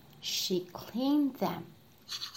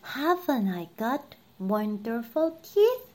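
lightly voiced proud princess; bossy little princess. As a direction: show off the teeth, a bit bossy. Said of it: "said the little princess".

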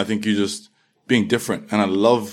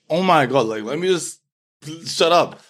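higher-pitched retold exasperation; exasperated; 6 semitones higher than usual. London kid to teasing schoolmates, mock exasperation. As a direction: act out being fed up with the pestering.

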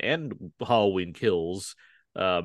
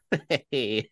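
sinister laugh. Pretend. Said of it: "a sinister laugh was what I was going for".

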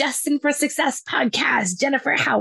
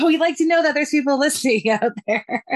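laughing through the words; 5 semitones higher than usual. Real, not acted. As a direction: chuckle as you say it. Laughs while making her point.

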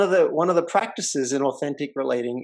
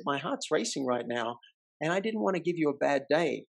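softer, open and sincere; vulnerable reveal; 6 dB quieter than usual. Retold or imitated. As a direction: lay your heart bare gently. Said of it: "I revealed".

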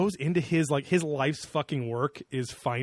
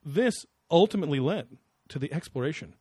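quoted pundit voice. Retold or imitated. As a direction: linger grandly on the key words. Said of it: "he then continues and he goes".

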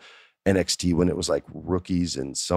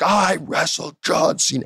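higher, slow, cocky boast; arrogant take; 12 semitones higher, slower than usual. Retold or imitated. Wrestler delivering his promo line, arrogant and slow. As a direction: rub it in their faces. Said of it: "more of an arrogant take".

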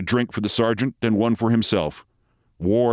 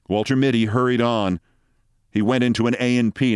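ordinary delivery, nothing marked

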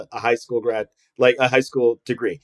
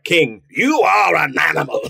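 mock shout; 2 semitones higher than usual. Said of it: "It's like".

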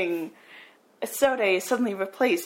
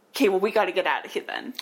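hurried casual mom; much faster than usual. Retold or imitated. Mother's hasty reply.

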